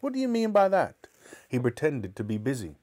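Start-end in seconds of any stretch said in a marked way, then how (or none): 0.0-1.1 indignant high-pitched question; demanding mother. Acted. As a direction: demand an explanation in a raised voice. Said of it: "Mother asked".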